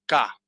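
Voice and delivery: K sounded as an isolated "ka", open Spanish A; syllable demo. Shown as a demonstration. Teacher revealing how the first symbol sounds, syllable demo. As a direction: say K as the syllable "ka", set apart. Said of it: "A ver cómo suena esto".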